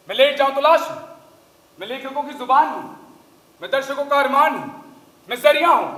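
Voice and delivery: rising, declaiming with growing force; grand monologue. Acted. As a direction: orate like a stage actor about himself. Actor's grand self-description monologue.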